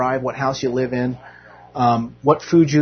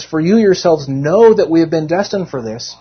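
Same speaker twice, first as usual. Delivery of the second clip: louder emphatic reading; 3 semitones higher, 5 dB louder than usual. Acted. Preacher repeating the verse to the church, louder. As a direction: read out louder, leaning on know. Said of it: "he says".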